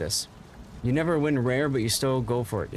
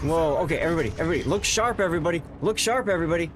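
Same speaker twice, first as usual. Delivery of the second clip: playful, higher-pitched rallying of the troops; mock urgent warning; 4 semitones higher, much faster than usual. Streamer warns viewers the boss is here, mock urgent. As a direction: pretend to scramble for an inspection.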